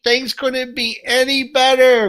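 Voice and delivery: high, slow, gushing exec voice; upbeat CEO voice. Retold or imitated. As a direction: ham up a cheerful CEO. Mocking CEO's upbeat claims.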